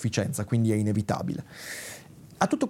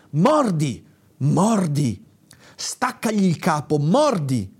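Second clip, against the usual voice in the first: acted cry, a touch louder; urgent cry; 3 semitones higher, 4 dB louder, slower than usual. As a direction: yell the command to bite. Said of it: "Allora un grido mi fuggì dalla bocca". (grido concitato, recitato)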